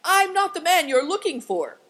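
loud, high, flustered protest; flabbergasted cry. A narrator's reading. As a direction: protest in sheer astonishment. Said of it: "flabbergasted from inside".

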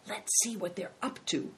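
soft, hushed aside; softly, as if not to be overheard; whispered. A narrator's reading. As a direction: whisper it secretively to a companion. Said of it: "whispered Big Tiger to Christian".

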